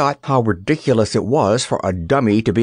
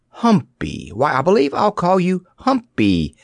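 higher-pitched bright idea; delighted cry; 8 semitones higher than usual. A narrator's reading. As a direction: exclaim as the name strikes you. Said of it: "cried Dorothy".

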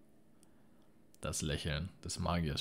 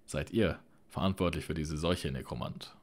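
calling out; 4 dB louder than usual. Acted. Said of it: "rief Arthas".

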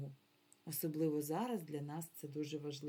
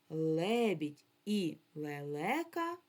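slow and drawn out for the class; slow careful classroom reading; slow, clear teaching demo; 5 dB louder, slower than usual. Shown as a demonstration. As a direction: say each word slowly so children follow. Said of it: "Скажемо".

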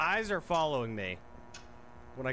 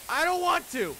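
scared protest; 5 dB louder than usual. Real, not acted. Game forces zoom on eyeball.

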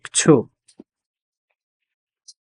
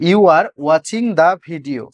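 slow dictation; much slower than usual. Shown as a demonstration. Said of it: "তুমি ভিডিওটি দেখছো".

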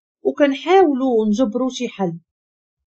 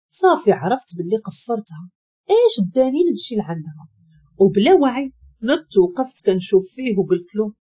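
ordinary delivery

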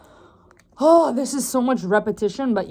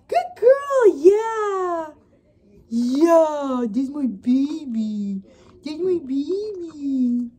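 dog voice; 4 semitones higher, much slower than usual. Real, not acted. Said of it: "my dog voice is just hilarious".

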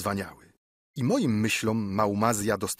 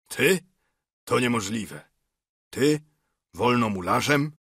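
incredulous questioning, key words pitched up; acted disbelief. A narrator's reading. Fortunato doubts his friend is a freemason, disbelieving. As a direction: question it in mild astonishment.

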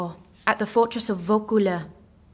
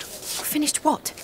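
slow, breathless whispered question; a frightened girl whispers her question; alarmed whisper; 6 semitones higher, 5 dB quieter, much slower than usual. Acted. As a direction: hush it out in sudden fear. Jeanne alarmed at being taken away.

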